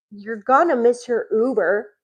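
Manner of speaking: with attitude. Retold or imitated. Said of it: "I just got an attitude".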